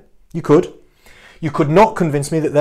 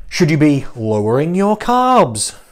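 mock earnest questioning. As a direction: pose it as a put-on serious suggestion. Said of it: "I'm taking the piss with that one".

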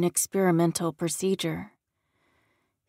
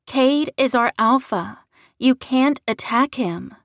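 higher, louder, urgent woman's voice; pleading; 6 semitones higher, 6 dB louder than usual. A narrator's reading. Redhead stopping Larry attacking the alpha, pleading. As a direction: plead with raised pitch and volume. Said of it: "she pleaded".

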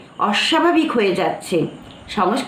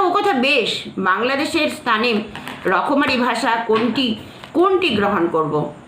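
questioning objector; 3 semitones higher than usual. Retold or imitated. Teacher voicing a doubtful reader's question, light puzzled tone. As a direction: raise the objection as a puzzled listener.

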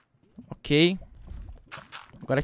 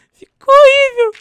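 far higher, louder, slow squeal; 14 dB louder, slower than usual. Real, not acted. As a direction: squeal it in horror. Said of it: "Porque ficou horrível".

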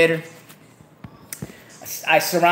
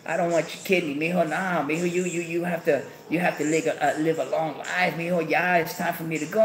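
softly voiced tearful father; crying dad; 7 dB quieter than usual. Dad in bed refusing his son's kidney, tearful. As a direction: lightly imitate a weeping dad, soft and halting. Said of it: "My dad crying on the bed".

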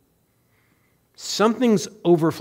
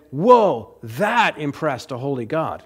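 mock awe; slower than usual. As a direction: act out being impressed, tongue in cheek. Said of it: "he's not pointing to Abel's sacrifice and saying".

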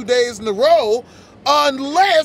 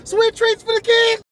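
mock cooking show host; 9 semitones higher than usual.

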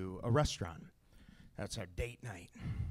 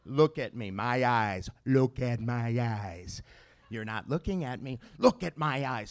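louder, firm insistence; stern dad; 4 dB louder than usual. Acted. Dad demanding his son's attention, stern and loud. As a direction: make him look you in the eye.

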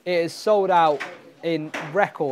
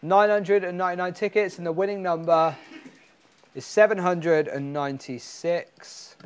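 raffle caller. Acted. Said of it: "Ladies and gentlemen in the studio audience".

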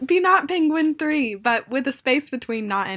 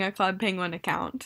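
whispering; 5 semitones lower, 7 dB quieter than usual. Real, not acted. Quiet aside while recording.

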